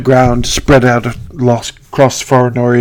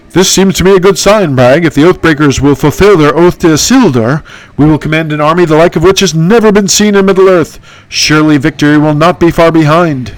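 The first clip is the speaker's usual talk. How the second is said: a slightly raised, proud heroine voice; lightly voiced hero addressing Bragg; a hint of a noble hero; Candace voice. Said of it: "that's my impression".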